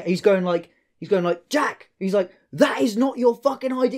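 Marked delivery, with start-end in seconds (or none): 1.5-1.9 high yelled name across the street; imitating a mate shouting a name; retold shout. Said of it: "like, shouting". 2.5-4.0 high, raised mocking yell; imitating a mate yelling at a crackhead; retold shout. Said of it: "like, shouting".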